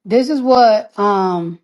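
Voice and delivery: short of breath, words pushed out; out of breath, gasping between words. Real, not acted. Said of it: "I can't breathe".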